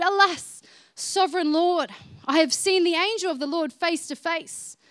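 mildly acted exclamation to God; exclaiming. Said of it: "he exclaimed".

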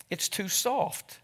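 slow, soft sighing line; sighed. A narrator's reading. Angel fretting over the model mother, soft slow sigh. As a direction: breathe it out with regret. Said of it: "she sighed".

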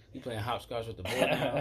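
slow, amused ribbing; laughing mock question. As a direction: tease through a laugh.

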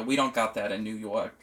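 put-on New York accent. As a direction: say it like a New Yorker. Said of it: "I love that accent".

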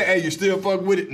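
mocking quote. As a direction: imitate the naive question. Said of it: "that's just supposed to say".

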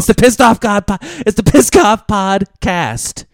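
loud, slow hype announcer. Pretend. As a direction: boom out the show name. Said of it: "announcing the show name".

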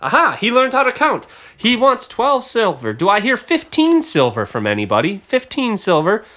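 high, lively auctioneer calling bids. Acted. Auctioneer asking the room for fifteen silver, high-pitched patter.

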